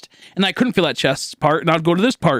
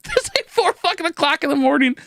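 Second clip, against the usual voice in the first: a high, strained yell with a breaking voice; screaming; 12 semitones higher than usual. Retold or imitated. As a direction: yell it at her mom in a panic. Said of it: "screaming at her mom".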